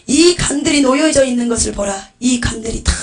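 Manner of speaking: loud, emphatic proclamation; solemn divine command. Acted. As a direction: announce a warning as the Lord. Voicing the Lord's solemn command.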